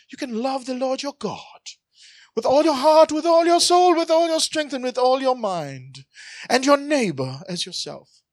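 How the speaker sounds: put-on high, loud Jewish accent building on each line. Pastor voicing the lawyer's answer in Jewish accent. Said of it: "You can imagine his Jewish accent".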